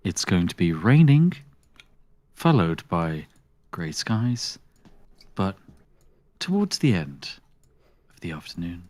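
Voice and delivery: a hint of a dull radio forecaster; weather forecaster. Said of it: "And now to Spiff with the weather".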